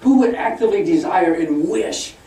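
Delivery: mock sermon of moral outrage; mock lecturing. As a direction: scold them as a preacher would, climbing in pitch. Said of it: "he was lecturing us atheists".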